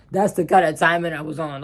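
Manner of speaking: laughing. Real, not acted. Laughing after violent boast.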